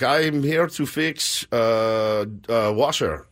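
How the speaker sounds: put-on Russian repairman's accent, slow and halting. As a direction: lightly imitate a hesitant Russian handyman. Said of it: "he's Russian".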